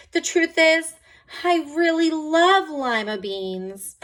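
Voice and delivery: high, loud, slow confession; eager confession. A narrator's reading. Camilla admitting she loves lima beans, eager. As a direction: blurt it out with relief.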